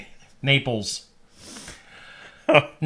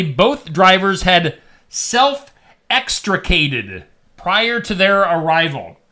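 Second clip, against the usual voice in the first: slow, stiff officialese reading; official report voice; slower than usual. Retold or imitated. Quoting the fire authority in a stiff official tone. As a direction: read it like a dry fire report. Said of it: "where he says".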